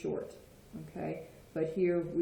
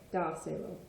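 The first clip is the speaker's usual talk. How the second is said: Da, se, lo stressed on Da. Shown as a demonstration. Teacher showing the accent on the command, stress on Da in Da, se, lo. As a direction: lean on Da, with se and lo lighter. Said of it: "It's gonna go on the A".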